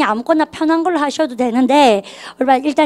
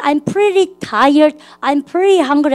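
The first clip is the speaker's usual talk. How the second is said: slow model sentences; much slower than usual. Shown as a demonstration. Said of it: "그래서".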